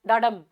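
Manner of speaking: "डाडम" as weak DA, stronger DUM; iambic stress. Shown as a demonstration. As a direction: land the beat on डम in "डाडम". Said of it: "यानी धीमा तेज".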